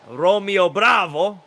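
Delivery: "Romeo Bravo" crowed high, loud and slow; grand rooster herald. Acted. Rooster announcing himself to the guard, grand crowing voice. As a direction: proclaim your own name with a flourish. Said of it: "this rooster's by the name".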